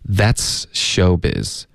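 That's showbiz said very slowly, falling at the end; That's showbiz as one phrase. Shown as a demonstration. Teacher slowly showing how to say the whole idiom. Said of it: "整体的这样说".

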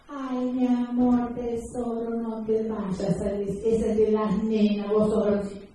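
voz aguda y lenta, empalagosa, de adulto a un niño; tono de adulto mimoso. Retold or imitated. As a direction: imita con dulzura exagerada a quien consiente a un nene. (imitación de un adulto que habla mimoso a un niño)

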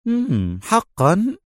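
mock disbelief pitched high; sarcastic. A narrator's reading. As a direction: sneer the question upward. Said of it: "ابتسم روجر في سخرية".

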